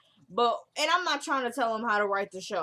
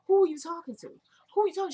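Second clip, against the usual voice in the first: higher, outraged questioning; how dare you, mock outrage; indignant mother; 8 semitones higher, 4 dB louder, much faster than usual. Mother confronting son angrily.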